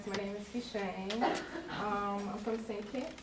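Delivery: light Kittitian accent; natural Kittitian accent. Real, not acted. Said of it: "I have a little accent".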